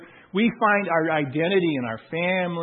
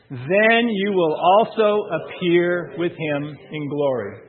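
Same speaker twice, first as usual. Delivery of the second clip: slow, louder unison reading; responsive reading; 4 dB louder, slower than usual. Acted. Pastor leading church in back-and-forth reading, slow and loud. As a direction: lead the room, reading slowly and strongly.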